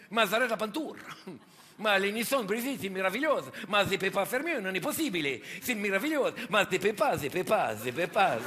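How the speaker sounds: light mock Italian accent; Italian accent, half-hearted. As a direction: play the Italian painter with a hammy Italian lilt. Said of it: "l'accent italien".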